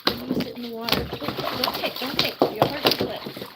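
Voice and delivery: firm scolding. Real, not acted. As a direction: stop her kicking, firm and loud. Scolding the bird in bath.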